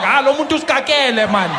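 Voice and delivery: high, appalled Zulu comment; mock-disgusted onlooker in Zulu; disgusted guy. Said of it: "And you're like".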